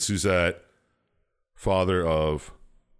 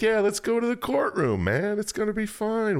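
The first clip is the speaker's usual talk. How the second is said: high, breezy fairy lord voice, much higher pitch. Retold or imitated. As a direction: play the smooth-talking fairy lord luring you in. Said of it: "Fairy lord's like".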